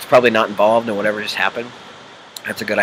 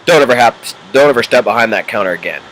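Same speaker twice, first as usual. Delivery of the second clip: 1 deep, scary voice; faster than usual. Retold or imitated. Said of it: "probably the voice wasn't that deep".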